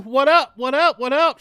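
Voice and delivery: high, loud call to a viewer; excited streamer shout-out. Real, not acted. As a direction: hype it up for the chat.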